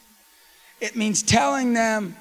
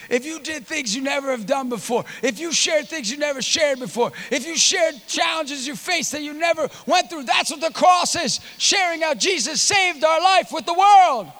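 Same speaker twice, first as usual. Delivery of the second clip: higher, building sermon cadence; impassioned preaching; 7 semitones higher than usual. Real, not acted. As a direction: build each clause toward the big point. Preaches at full force.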